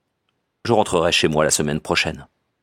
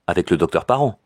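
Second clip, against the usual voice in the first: usual speaking voice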